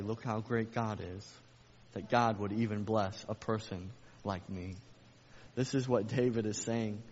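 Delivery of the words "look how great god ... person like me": humble praise. Retold or imitated. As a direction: say it in humble wonder. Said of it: "Or you can say".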